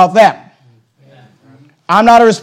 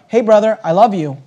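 gentle approach. Shown as a demonstration. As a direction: reassure him tenderly.

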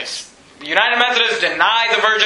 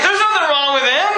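pharisees defending; 5 semitones higher than usual. Retold or imitated. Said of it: "they're like".

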